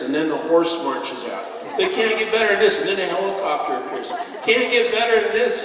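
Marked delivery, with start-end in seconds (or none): 1.8-2.8 higher, louder, laughing disbelief; giddy, breathless wonder; mounting amazement. Retold or imitated. Mock awe at show escalating. 4.4-5.6 higher, louder, rising in wonder; as if the show just can't be topped; incredulous and thrilled; peak amazement. Retold or imitated. Mock awe at show escalating.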